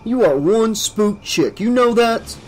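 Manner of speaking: annoyed, high-pitched scolding; exasperated and high; genuinely angry. A narrator's reading. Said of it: "genuinely angry with his friend".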